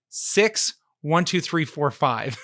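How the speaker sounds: slow, deliberate, each digit spaced out; slow reveal. Shown as a demonstration. Revealing the silly scam code to the host, slow deliberate reveal. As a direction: spell out the punchline number slowly. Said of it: "guess what the verification code was".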